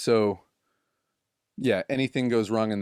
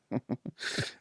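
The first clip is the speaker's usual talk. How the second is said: sheepish laugh; 3 semitones higher, 9 dB quieter than usual. Retold or imitated. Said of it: "sheepishly, like".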